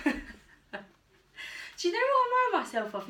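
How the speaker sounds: giggling at herself mid-question; laughing. Real, not acted. Vlogger asks viewers about her jean dance, laughing.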